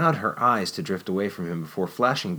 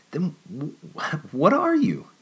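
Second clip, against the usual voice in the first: much higher and louder, stress on are; childish blurt; 10 semitones higher, 3 dB louder, slower than usual. Acted. Jennifer blurting at Nicholas, much higher and louder. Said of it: "she blurted out with a childish charm".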